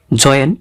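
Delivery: জয়েন said clearly as "joyen", oy glide into en; teacher modelling a word. Shown as a demonstration. Teacher to students showing the word's sound, clear and careful. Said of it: "তাহলে উচ্চারণটা দাঁড়ালো".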